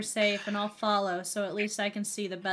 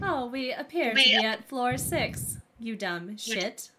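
lightly put-on British announcer; mild mock-British elevator recording. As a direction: announce it with a hint of a British accent.

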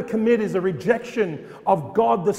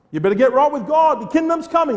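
urgent warning shout; 6 semitones higher, 5 dB louder, faster than usual. Acted. Preacher warning the crowd.

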